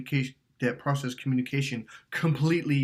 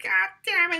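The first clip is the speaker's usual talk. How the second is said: high, loud mock curse; hammed-up retold swearing; mock angry outburst; 4 dB louder than usual. Cursing at his girlfriend in the retold fight, mock. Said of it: "I thought she was being a smart ass".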